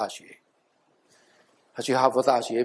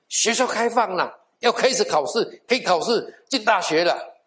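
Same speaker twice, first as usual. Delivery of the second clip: excited announcement; 7 semitones higher than usual. Retold or imitated. Preacher relaying the great news that schools reopened, excited. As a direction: relay big news with a higher-pitched lift. 宣布大好消息.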